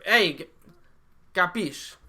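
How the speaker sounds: lightly put-on Italian-American; casual fake Italian accent; mock Italian accent. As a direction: toss it out like a mobster Italian. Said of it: "Nice Italian".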